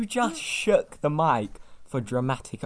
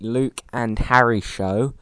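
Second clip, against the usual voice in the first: louder, spelling the address out firmly; loud clear repeat; 9 dB louder than usual. Acted. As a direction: announce it again, loud and clear. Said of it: "I'll repeat".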